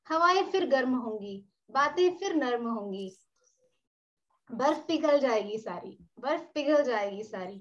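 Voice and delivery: measured lines, each falling away at the end; poem recitation. Acted. Poet sharing a new spring poem at an online reading, measured recitation. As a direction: recite with lingering, repeated refrains.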